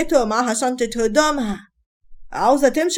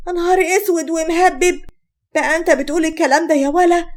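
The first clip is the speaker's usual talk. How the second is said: a shocked mother's cry, pitched up; shocked outcry; 5 semitones higher than usual. Acted. Mother-in-law reacting to his accusation, shocked. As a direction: gasp it out in disbelief.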